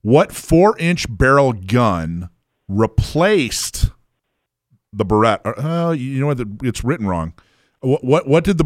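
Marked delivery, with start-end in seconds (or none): 0.0-5.4 slow, careful rereading; slow and deliberate. Real, not acted. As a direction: spell the question out slowly. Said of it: "let me read it one more time".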